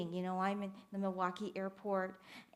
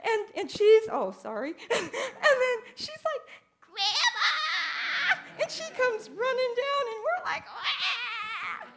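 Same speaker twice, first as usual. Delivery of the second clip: choked up with joy, telling it; welling up at the memory; tearful; 12 semitones higher, 7 dB louder than usual. Real, not acted. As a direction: voice breaking, high and loud. Tearful retelling of the reunion.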